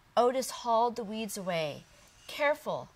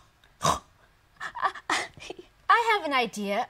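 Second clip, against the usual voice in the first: excited little pig; 6 semitones higher, 5 dB louder, much slower than usual. Acted. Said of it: "Otis said".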